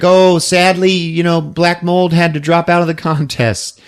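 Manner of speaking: a touch of sugary host voice; lightly mock the pageant host; Kirstie Alley. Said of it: "Kirstie Alley's like".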